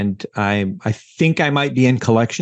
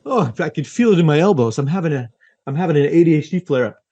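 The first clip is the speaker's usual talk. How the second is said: higher, fast hammed-up ailment sufferer; mock patient complaint; 4 semitones higher, faster than usual. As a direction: joke about a flare-up like arthritis. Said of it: "when my".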